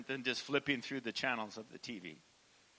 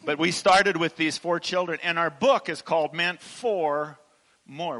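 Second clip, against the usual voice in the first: excited announcing; 3 semitones higher, 12 dB louder than usual. Real, not acted. Preacher builds up to the book.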